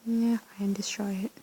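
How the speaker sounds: reluctant whisper of giving in; grudging whisper. Real, not acted. Player grudgingly gives in to destroying it, whispered. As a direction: breathe it out, defeated.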